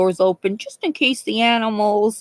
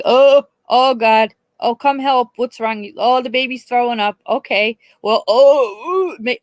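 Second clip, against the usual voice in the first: high, loud, drawn-out hammed-up fuss; mock squeamish panic; 4 semitones higher, 4 dB louder than usual. Mocking people who panic at a sick baby, high hammed-up fuss. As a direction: ham up a squeamish relative gagging. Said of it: "others are like".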